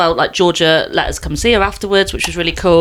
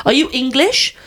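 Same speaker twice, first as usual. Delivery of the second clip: higher question in a mock German accent; lightly put-on German accent; 5 semitones higher than usual. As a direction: imitate a curious German woman. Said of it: "I'm gonna do the accent".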